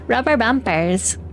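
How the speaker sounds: put-on slow Highlands-accented "Rubber bumpers"; mock-demonstrating the funny Highlands pronunciation; imitated Highlands accent. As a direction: say it slowly in a playful Highlands accent. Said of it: "they say rubber bumpers funny".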